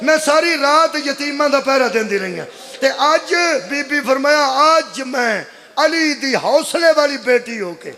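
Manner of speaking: mournful, stretched majlis wail; lamenting preacher. Acted. Sister telling brother of the night guarding orphans, lamenting. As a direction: carry the sister's grief in drawn phrases.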